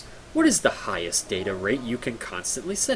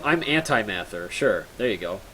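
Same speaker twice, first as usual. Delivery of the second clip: usual speaking voice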